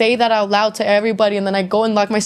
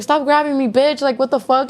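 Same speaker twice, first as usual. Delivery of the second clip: retold cussing out; 5 semitones higher than usual. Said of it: "cussing out the police officer".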